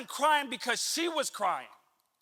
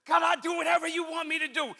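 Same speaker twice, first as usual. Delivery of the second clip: higher, fervent mock plea to God; earnest prayer; 5 semitones higher, faster than usual. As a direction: lift it up like a sincere vow. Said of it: "Have we said that before?".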